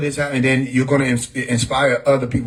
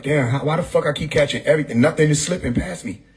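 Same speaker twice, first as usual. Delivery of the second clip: annoyed. Retold or imitated. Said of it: "annoyed like".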